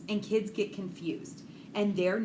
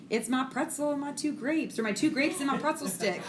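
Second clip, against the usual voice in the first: put-on higher-pitched kid explaining; quoted young son; 6 semitones higher than usual. Son explaining his made-up words to mom, lightly imitated higher voice. Retelling her son's explanation.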